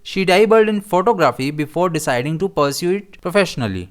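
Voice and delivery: each word of the sentence read very slowly and clearly; teacher dictating an example sentence. Shown as a demonstration. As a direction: read it out slowly so learners follow. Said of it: "हम इसे कैसे use करेंगे".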